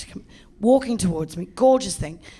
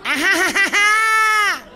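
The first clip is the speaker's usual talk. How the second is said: much higher, loud cackling laugh; mocking laughter; 10 semitones higher, 5 dB louder than usual. Masseuses laugh at the client in Korean, loud mock cackle. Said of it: "they're laughing in Korean".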